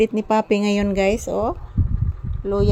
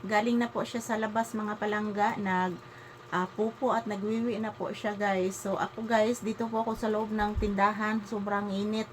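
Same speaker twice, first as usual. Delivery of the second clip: soft-spoken; 12 dB quieter than usual. Real, not acted. Vlogger greeting viewers quietly beside the electric fan, hushed. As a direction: keep it soft and near the mic.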